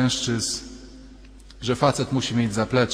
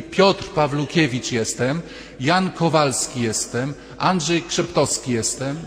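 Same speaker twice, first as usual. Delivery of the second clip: announcing names; 2 semitones higher than usual. Retold or imitated. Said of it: "dopóki myśmy mówili".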